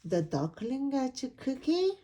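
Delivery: the title turned into a wary question; suspicious question. Acted. Pigeon squints at the book title, suspicious. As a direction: reread the title with doubt, rising. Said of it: "I do not like the look of that title".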